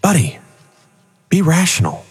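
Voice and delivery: a hint of a cheerful cartoon angel; angel Donald. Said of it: "the angel's on the other side saying".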